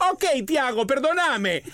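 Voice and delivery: high, quick brush-off sorry; hammed-up impatient wife; imitating hurried apology. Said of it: "me imitaste perfecto".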